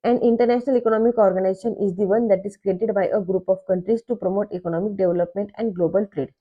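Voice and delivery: reads the definition out very slowly, word by word; slow textbook reading. Shown as a demonstration. Teacher reading a textbook definition to students, slow dictation.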